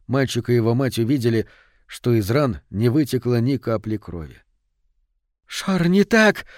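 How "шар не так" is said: high, drawn-out cry of alarm; exclamation. A narrator's reading. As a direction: cry it out slowly, pitched well up. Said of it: "воскликнула мать".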